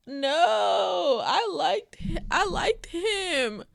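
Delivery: barely holding back sobs; real crying. Real, not acted. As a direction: let the words break through tears. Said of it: "I'm really crying".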